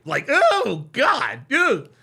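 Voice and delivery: drawn-out laughing groan; slow laughing disbelief. Real, not acted. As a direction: stretch it out, cracking up.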